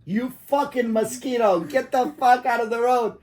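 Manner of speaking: imitating a yell. Father yelling at a cyclist from the car, mock yell. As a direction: bark it like an angry father. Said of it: "my father yelled at him".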